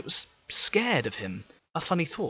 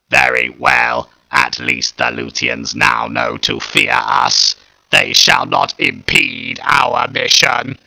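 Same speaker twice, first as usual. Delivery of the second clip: grudging mechanical reply; 13 dB louder, slower than usual. Acted. Dalek concedes to Ryuk.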